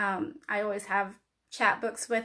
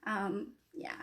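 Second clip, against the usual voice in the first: nervous, trembling voice; shaky voice; 2 semitones higher than usual. Real, not acted. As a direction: voice shaking with nerves. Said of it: "sorry my va-, voice is shaking".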